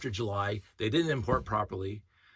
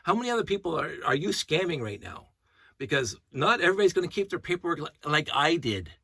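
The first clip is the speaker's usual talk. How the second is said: retold yelling; 5 semitones higher than usual. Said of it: "I'm yelling at him now".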